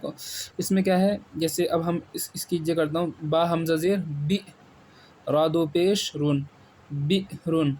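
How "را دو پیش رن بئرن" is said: بئرن with a sharp glottal catch before رن; with a glottal jerk. Shown as a demonstration. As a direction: jolt the hamza in بئرن. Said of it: "یہاں جھٹکے سے پڑھیں گے".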